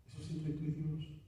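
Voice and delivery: soft echo leaning on "y Dios"; hushed repeat. Acted. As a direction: say it privately to one listener. Preacher's emphatic then hushed repeat.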